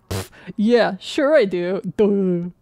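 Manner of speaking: loud, scoffing sarcasm; sarcastic. Acted. Player reading out the sarcastic reply option, sarcastically. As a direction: hammer it out with heavy sarcasm. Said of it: "Sarcastic reply".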